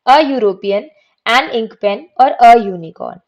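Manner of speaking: each article and noun said clearly for students to repeat; read aloud drill. Shown as a demonstration. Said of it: "अब आप एक बार बोल के देखो".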